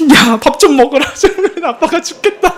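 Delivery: high-pitched mock weeping with a laugh; retold weepy plea, half laughing; imitated tearful pleading. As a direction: beg like a worn-out crying dad, hammed up. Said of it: "막 울어요".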